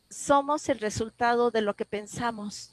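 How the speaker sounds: measured, very distinct delivery of a heard message; clear, strong voice. Retold or imitated. Inner voice answering a grieving woman's plea, clear and strong. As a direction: say it clearly and deliberately, like an answer given. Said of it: "una voz muy clara".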